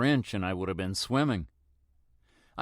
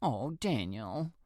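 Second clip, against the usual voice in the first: slow, soft, higher sorrowful sigh; a touch of choking up; choked-up sympathy; 3 semitones higher, 5 dB quieter, slower than usual. Acted. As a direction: neighbour grieving with him. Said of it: "she even chokes up".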